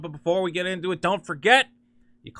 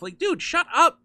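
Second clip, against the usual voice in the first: much higher, laughing through it; laughing retort; 11 semitones higher, 5 dB louder than usual. Real, not acted. Mocking Seth Rogen's comment, laughing. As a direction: laugh while telling him off.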